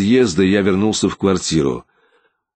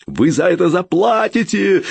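much higher, shrieking threat; hysterical yell; 10 semitones higher than usual. A narrator's reading. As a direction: scream up the stairs, losing control. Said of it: "истерично завопил он".

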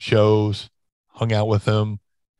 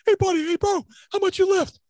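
Bruiser Bedlam imitation. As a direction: ham up a gym bro sizing you up. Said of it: "I'm doing Johnny Canine Bruiser Bedlam all the way".

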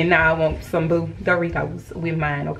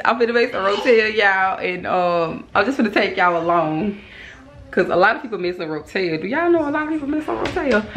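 New Orleans accent. Shown as a demonstration. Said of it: "my New Orleans voice".

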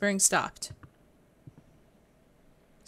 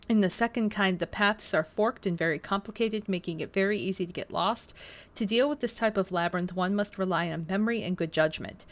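steady reading-aloud voice. Acted. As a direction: read the book text out evenly. Reads in-game book text aloud.

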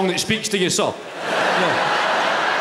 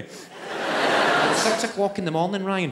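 slow, drawn-out telling-off; annoyed missus; slower than usual. Retold or imitated. Missus scolds Ryan at six in the morning, exasperated. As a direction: stretch it out, exasperated.

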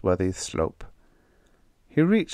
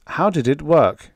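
demanding; 7 semitones higher, 5 dB louder than usual. A narrator's reading. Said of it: "Solinar demanded".

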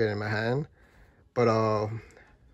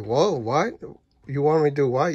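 startled disbelief; 3 semitones higher, 5 dB louder than usual. Retold or imitated. Shocked at the building's offer.

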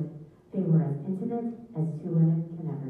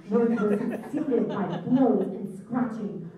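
laughing while reading; 3 semitones higher, slower than usual. Real, not acted. Reader laughing at fight story.

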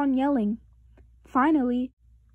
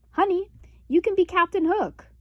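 high, loud, bossy assignment; bossy big brother; 7 semitones higher, 4 dB louder than usual. A narrator's reading. Brother assigning Honey the villain, high and bossy. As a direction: hand her the villain part.

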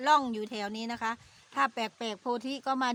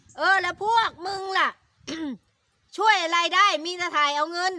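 retold angry retort; 5 semitones higher, 4 dB louder than usual. Aunt's own retort retold.

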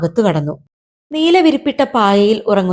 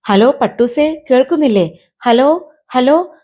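a touch of worry, raised pitch; anxious calling; 5 semitones higher than usual. Acted. Abida phoning her kite up in the sky, mildly anxious calling. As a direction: call down a bad line, mildly anxious. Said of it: "പരിഭ്രമം കലർന്ന സ്വരം".

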